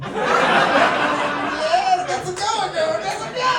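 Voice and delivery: high, mock-ecstatic cheering; imitating thrilled fans. American admirers reacting to English words, imitated in high delight. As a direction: cheer them on, pitched well up.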